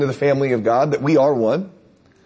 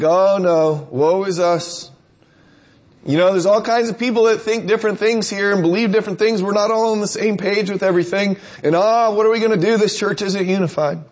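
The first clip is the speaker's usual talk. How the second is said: gloomy crank; 3 semitones higher than usual. Retold or imitated. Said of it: "kinda like the crank in the group".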